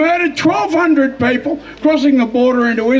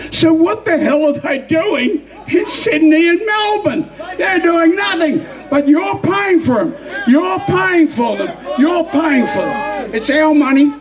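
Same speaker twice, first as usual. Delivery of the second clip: raised, higher voice hammering the point home; angry shout; 5 semitones higher than usual. Real, not acted. Rally speaker rails at the crowd about migrants, angry shout. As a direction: bellow it at the crowd in outrage.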